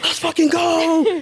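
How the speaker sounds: high, drawn-out victory cheer; retold cheering. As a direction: re-enact a celebration, stretching the words high. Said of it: "I was cheering, jumping around".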